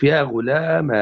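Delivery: يا غلام said ghulamaa with long final "aa"; alif ending. Shown as a demonstration. Teacher listing forms for students, long "aa" closing يا غلام. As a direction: end يا غلام on an open alif. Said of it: "وبالألف".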